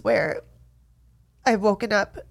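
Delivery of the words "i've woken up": tearful. Real, not acted. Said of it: "crying on camera".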